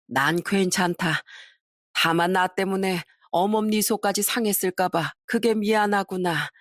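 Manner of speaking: gently tearful. Acted. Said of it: "눈물을 흘리며".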